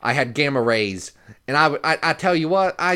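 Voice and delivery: failed Brooklyn accent impression of Stan Lee; a weak try at old Brooklyn showman. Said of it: "I can't do a Brooklyn accent".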